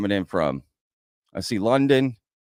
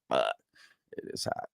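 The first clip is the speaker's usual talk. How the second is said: whispered curse; 11 semitones lower, 10 dB quieter than usual. Retold or imitated. Heat suddenly hits you.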